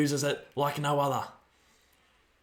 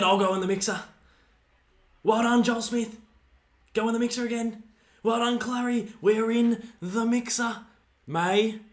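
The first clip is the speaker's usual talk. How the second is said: excited cheering; 8 semitones higher, 4 dB louder than usual. Real, not acted. Fan cheering contested ball.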